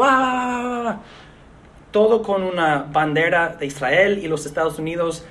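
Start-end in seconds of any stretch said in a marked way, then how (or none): 0.0-1.0 imitated yell. Preacher imitates a megaphone man yelling at passersby, mock yell. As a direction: imitate a shouting man with a held, raised cry. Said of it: "él perseguiría a la persona gritando".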